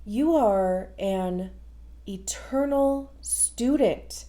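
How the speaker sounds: slow, deliberate reading; slow careful read. Real, not acted. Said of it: "third time is a charm".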